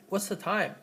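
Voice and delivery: "what's the time?" falling on "time"; falling wh-question. Shown as a demonstration. Teacher demoing a wh-question, falling. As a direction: let "time" drop. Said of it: "the time is following intonation".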